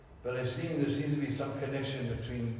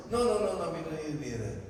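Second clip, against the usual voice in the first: eager refusal; 4 semitones higher, much faster than usual. Acted. Refusing gold and jewels.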